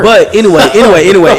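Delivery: loud. Real, not acted. Talking over friend, repeating loudly.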